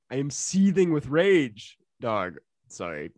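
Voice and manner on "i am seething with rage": mock fury. Reads quote dramatically.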